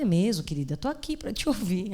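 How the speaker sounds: soft, kind reassurance to a frightened woman; gentle pastoral reply. Retold or imitated. Pastor gently welcomes a frightened church woman, softly caring. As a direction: invite her to speak, softly. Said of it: "Eu falei".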